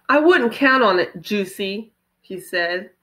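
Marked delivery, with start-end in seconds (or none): 0.1-1.9 a louder angry retort; boiling over. Acted. Brother boiling over at his little sister, louder angry retort. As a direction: fire it back at her, boiling over. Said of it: "Evan boiled over".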